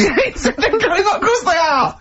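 high-pitched, helpless laughing delivery; laughing hard. Real, not acted. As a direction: squeal it through real laughter. Cracking up at the hotcakes line.

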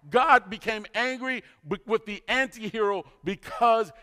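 high, driving sermon delivery; forceful preaching. Acted.

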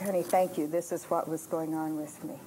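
soft, low apologetic voice; subdued retold apology to a husband. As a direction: say it quietly, humbly. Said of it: "I went up with apology".

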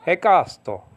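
Hekasto with an Italian lilt on KA; Italian-like Greek. Shown as a demonstration. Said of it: "read it like an Italian would speak".

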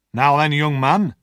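sharp sergeant. Acted. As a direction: stop the boy sharply. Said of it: "the sergeant said sharply".

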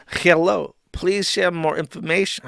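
badly faked Mexican accent. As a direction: attempt a Mexican accent, half-successfully. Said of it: "I can't do a racist Mexican accent".

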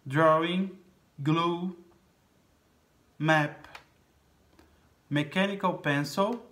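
each word slow and clear, pause between; vocabulary drill. Shown as a demonstration. Teacher reading a word list to pupils, slow and clear. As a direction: model every word for the class to repeat.

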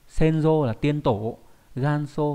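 senjo and ganso read slowly; measured model pronunciation; slow careful reading. Shown as a demonstration. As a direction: say each reading clearly for learners. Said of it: "Âm ôn là so hoặc là do".

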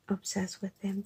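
confiding whisper. Real, not acted. Telling her friend she loves keys, whisper. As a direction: let it fall to a hush. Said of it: "I've been a little bit quiet".

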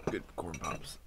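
eating cereal. Real, not acted. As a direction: mouth full of cereal. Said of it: "Let me finish my cereal".

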